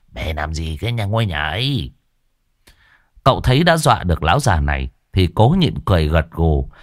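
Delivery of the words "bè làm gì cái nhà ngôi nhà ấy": laughing. Acted.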